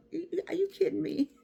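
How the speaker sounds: breathless whispered disbelief. Real, not acted. Parent whispering disbelief at children giving orders. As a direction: hiss it in a stunned whisper. Mock disbelief at bossy kids.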